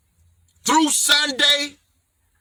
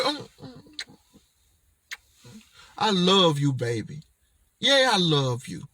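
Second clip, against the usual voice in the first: sweet talk to his product; 8 semitones lower, 5 dB quieter than usual. Shown as a demonstration. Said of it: "this is how I talk".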